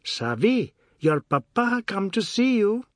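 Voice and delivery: lightly voiced children, hushed and expectant; a hint of awed little children. Children relaying the news to Savi, awed and expectant. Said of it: "in awed and expectant tones".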